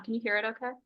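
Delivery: muffled through a face mask; speaking through mask. Real, not acted. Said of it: "I'm gonna try to speak with my mask on".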